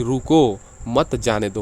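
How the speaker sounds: रुको set apart, then मत जाने दो as one group; pause after रुको. Shown as a demonstration. Teacher explaining that someone must be stopped, pause after रुको. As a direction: stop briefly after रुको. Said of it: "रुकने के बाद कह रहा है".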